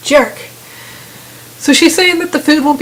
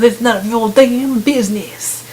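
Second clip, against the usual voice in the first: mock hostile. Woman holding a gun refuses to say who she is, mock hostile. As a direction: imitate a hostile brush-off, stretching the words. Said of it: "she's so hostile".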